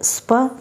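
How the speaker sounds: "sp-oon" split into sp then oon; sound-by-sound demo. Shown as a demonstration. Teacher sounding out "sp-oon" for students. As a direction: break "sp-oon" into two parts.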